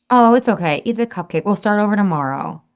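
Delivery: mock reassuring inner excuse; permission-giving. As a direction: wave it away as no big deal. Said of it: "permission-giving thoughts".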